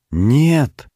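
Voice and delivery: high desperate scream; shouting. Acted. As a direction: scream it out in horror. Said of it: "снова закричал Олег".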